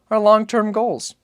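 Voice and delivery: put-on high, slow child's voice, carefully stating; boy's voice. Boy repeats the phrase to his father, high and deliberate. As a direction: spell out a grown-up phrase like a small boy.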